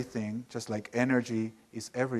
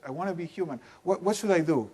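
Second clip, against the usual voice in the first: put-on desperate child; 4 semitones higher, faster than usual. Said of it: "And they're desperate".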